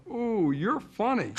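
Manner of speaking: slow, drawn-out odd stranger; stranger on the subway. Retold or imitated. Subway stranger recognizing him, slow and drawn out. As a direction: stretch it out like a strange man staring at you. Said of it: "he said to her".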